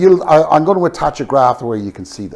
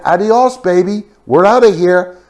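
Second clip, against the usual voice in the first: breezy mock farewell, a touch louder; leaving workers' farewell; 3 semitones higher, 5 dB louder than usual. Departing workers signing off with a breezy mock farewell. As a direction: toss it off like a cheerful goodbye. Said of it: "and said".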